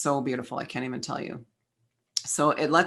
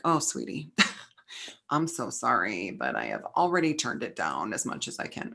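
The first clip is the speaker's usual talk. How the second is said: softer, lower, gently apologetic voice with a laugh; 5 semitones lower, 5 dB quieter than usual. Pretend. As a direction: coo it kindly like a loving guide saying sorry. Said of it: "my higher self is always like".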